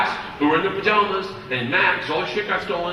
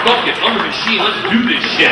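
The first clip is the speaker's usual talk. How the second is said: pumped up; 4 semitones higher, 7 dB louder than usual. Retold or imitated. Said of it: "I was like".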